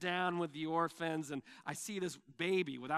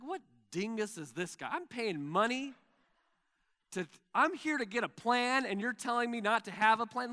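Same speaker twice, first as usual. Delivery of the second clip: mock-indignant, pitched up and louder; retold irritation; 5 semitones higher, 4 dB louder than usual. Pastor retelling his scoffing at a conference speaker, mildly indignant. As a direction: huff at the speaker like you've been cheated. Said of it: "so I'm just getting angry".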